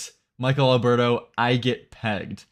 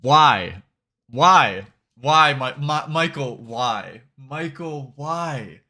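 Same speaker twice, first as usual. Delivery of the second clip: mock despair; much slower than usual. Streamer laments Michael's tweet, mock despair.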